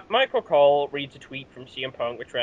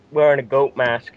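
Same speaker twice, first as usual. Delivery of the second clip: ordinary delivery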